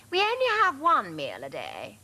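high, loud snooty dog voice; second Labrador. A narrator's reading. Labrador explaining the one daily meal, high voice. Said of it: "said the second".

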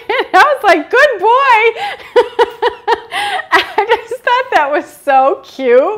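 high, loud laughing delight; squealing with laughter; cracking up with high delight. Real, not acted. Laughing recalling boy's answer.

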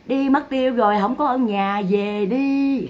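drawn-out mock call from the grave; lightly voiced dead man. Dead Cậu Năm sending visitors away, lightly voiced. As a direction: lightly play a man pretending he's out. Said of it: "ông nói".

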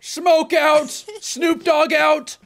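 slowly drawn callout; slow drawn-out joke call. Pretend. Player punning on a smoke callout, slow drawn-out call. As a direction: stretch it out slowly.

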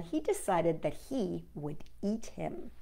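secretive whisper. A narrator's reading. Storyteller whispering the fox's wicked plan. Sly fox plot whispered.

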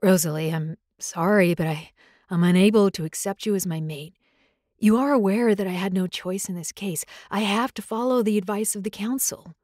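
regretful alpha, gently firm; alpha male voice. Acted. Chris, the alpha, speaks.

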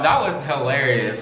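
normal talking voice

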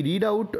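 "read" said with a long ee, like reed; present-tense sound in "read"; mispronounced read. Real, not acted. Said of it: "ভুল উচ্চারণ করে ফেললাম".

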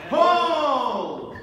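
loud, sharp call to stop; shouted command. Real, not acted. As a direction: bark the halt across the floor. Referee halting fencers.

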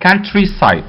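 countryside said slowly, stress on COUN; teacher drilling countryside; careful pronunciation. Shown as a demonstration. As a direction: model countryside clearly for students. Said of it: "اوعى تقولها country".

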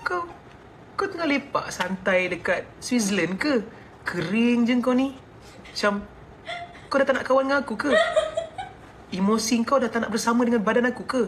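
lightly voiced teary armpit, half laughing; mock whiny armpit. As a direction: play the sulky armpit nagging its owner. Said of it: "dia macam".

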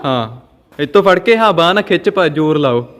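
loud, urgent push-start instructions; loud coaching. Real, not acted. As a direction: urge her on, firmly. Father coaching loudly. (ਉੱਚੀ ਆਵਾਜ਼ ਵਿੱਚ ਹੱਲਾਸ਼ੇਰੀ)

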